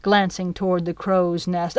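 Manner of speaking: usual speaking voice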